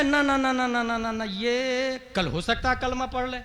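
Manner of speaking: hushed mimicry of hesitant objectors; quietly imitating timid excuse-makers; mock objectors. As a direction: drop to a soft, dismissive murmur. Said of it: "अच्छा, कुछ लोग क्या कहेंगे".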